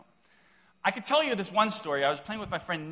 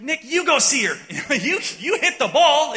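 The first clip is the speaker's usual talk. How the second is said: higher, louder urging; half-laughing, pleading to the friend; mock insistence; 9 semitones higher, 12 dB louder than usual. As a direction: push the friend to go check on her. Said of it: "So I'm like".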